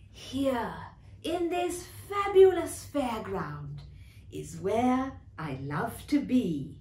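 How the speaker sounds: lightly voiced happy horse, unhurried; gentle contentment, slowing at the end; contented fairground horse. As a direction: settle softly into the last words. Contented horse on merry-go-round.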